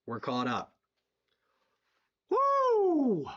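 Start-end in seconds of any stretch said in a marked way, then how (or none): 2.3-3.2 high, loud celebratory woo; excited whoop. Real, not acted. Streamer celebrating the donations catching up, loud whoop. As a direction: let out a big victory whoop.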